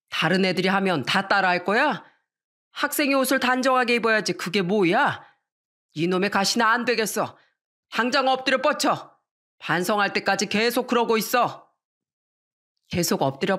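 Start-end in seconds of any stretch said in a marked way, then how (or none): 0.1-11.7 higher, firm commanding dad; stern father scolding. Acted. Strict father ordering daughter into punishment position, stern. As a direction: order her down, no arguing.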